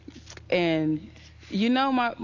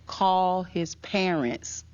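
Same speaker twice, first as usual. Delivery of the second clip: pastor's instruction; much slower than usual. Retold or imitated. Pastor's firm instruction retold.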